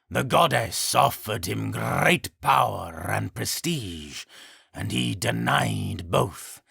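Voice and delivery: slow, grave creature voice; solemn and unhurried. Acted. Harpygriff speaks.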